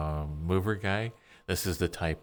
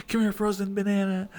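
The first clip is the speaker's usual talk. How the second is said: put-on baby talk; 13 semitones higher, 6 dB louder than usual. Talking to a frozen banana item.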